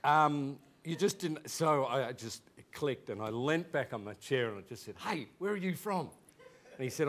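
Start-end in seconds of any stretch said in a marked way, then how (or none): 5.0-6.1 higher-pitched retold call; calling over. Student turning to the new classmate, calling over. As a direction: lean back and call out a question.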